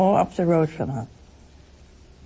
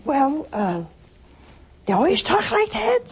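laughing; 7 semitones higher than usual. Retold or imitated. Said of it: "She said".

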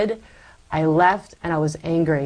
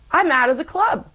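mock despair; 10 semitones higher than usual. Retelling fear of exclusion.

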